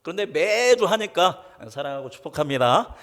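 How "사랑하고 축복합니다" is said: 사랑하고 축복합니다 rattled off as a habit, no feeling; rote empty phrase. Shown as a demonstration. Pastor mocks the routine greeting, flat and mechanical. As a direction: say it like a weekly routine. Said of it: "이렇게 하면 이 말이 어떤 말이".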